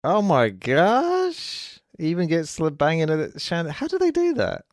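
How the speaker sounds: loud, high-pitched astonishment; real wide-eyed amazement; amazed. Real, not acted. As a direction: marvel out loud, voice shooting way up.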